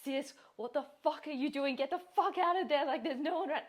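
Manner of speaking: high, loud shout at a horror-movie character; yelling at the screen. Retold or imitated. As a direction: yell at the girl on screen to get out. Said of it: "you're like".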